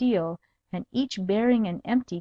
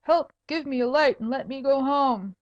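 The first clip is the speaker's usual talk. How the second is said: higher whining plea for help; 6 semitones higher than usual. Acted. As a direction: whine for help like a lost drunk. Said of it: "said the voice".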